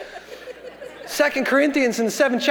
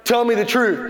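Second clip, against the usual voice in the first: a hint of a stern father; measured, serious parental questioning; lightly played dad pressing for the truth; serious daddy voice. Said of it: "get in that real serious daddy voice".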